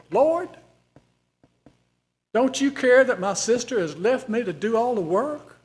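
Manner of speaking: high, loud indignant complaint; a put-upon hostess demanding fairness; Martha complaining to Jesus. Acted. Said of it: "I'll read it kinda like I think she would have said it".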